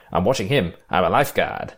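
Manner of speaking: lightly imitated bad Australian accent; James Coburn's awful accent. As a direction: mimic a badly done Australian accent. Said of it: "with his awful accent".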